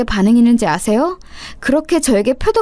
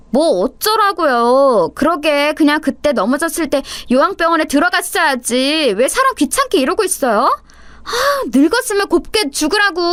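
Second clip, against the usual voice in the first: sneering daughter-in-law; 5 semitones higher than usual. Acted.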